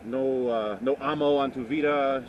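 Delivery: normal talking voice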